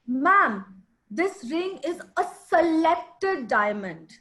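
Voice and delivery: selected stressed and slowed down. Shown as a demonstration. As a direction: lean on the word selected as you sell. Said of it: "which word am I stressing on? Selected".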